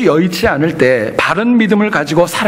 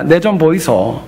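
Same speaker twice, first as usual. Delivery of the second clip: Gyeongsang dialect; slower than usual. Retold or imitated. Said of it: "경상도 분들은 그렇게 얘기한답니다".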